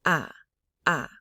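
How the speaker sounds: "Ah" short and low, dropping away; low stomach tone. Shown as a demonstration. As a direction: push "ah" down from the pit of the stomach. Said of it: "from the pit of your stomach tone".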